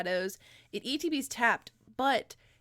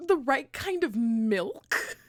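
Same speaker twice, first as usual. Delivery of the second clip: incredulous; 4 semitones higher, 5 dB louder, much slower than usual. Real, not acted. Incredulous echo.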